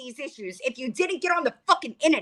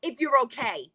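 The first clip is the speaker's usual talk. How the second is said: angry shout; 4 semitones higher than usual. Real, not acted. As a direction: snap it back at her hard. Angry rant at Gabby.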